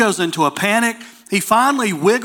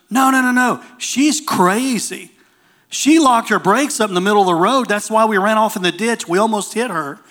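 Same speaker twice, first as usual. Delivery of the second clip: pitched-up, insistent retold objection; acting out a worked-up store owner; mildly frantic explaining, voice raised in pitch; agitated protest; 3 semitones higher than usual.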